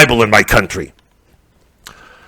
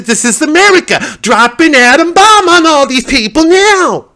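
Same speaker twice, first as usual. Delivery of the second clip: fanatic yell; 12 semitones higher than usual. Retold or imitated. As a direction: bellow it like a crazed patriot. Shouted demand at police.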